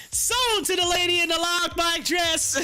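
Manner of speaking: high playful auctioneer call. Pretend. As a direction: sell it like an auctioneer. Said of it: "You sound like an auctioneer".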